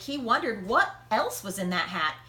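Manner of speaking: ordinary delivery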